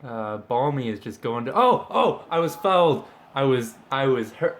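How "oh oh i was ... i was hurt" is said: high, loud mock fouled player; whiny footballer. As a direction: play the hurt footballer. Voicing his player after foul.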